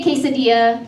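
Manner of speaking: quesadilla said with plain American vowels; anglicized pronunciation. Shown as a demonstration. Comic showing the crowd how they speak, anglicized quesadilla. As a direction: say quesadilla without any Spanish accent. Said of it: "even the way I speak, I say".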